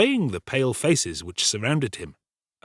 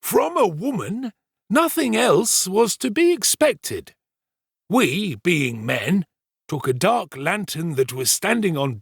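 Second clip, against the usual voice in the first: higher, deliberate pompous servant voice; self-important storyteller Giles; 8 semitones higher, 3 dB louder than usual. Acted. Servant retelling the night's alarm to the kitchen, pompous storytelling. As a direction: hold forth slowly, relishing the tale.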